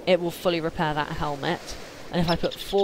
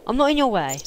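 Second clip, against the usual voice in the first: higher, louder angry retort; raging gamer; 7 semitones higher, 4 dB louder, faster than usual. Real, not acted. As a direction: fire back defensively. Arguing back over ladder.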